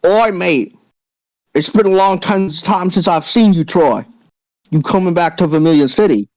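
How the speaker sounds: put-on light British accent, friendly biker greeting an old friend; a hint of a London biker's accent, casual and warm. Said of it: "speaks with a distinct yet familiar accent".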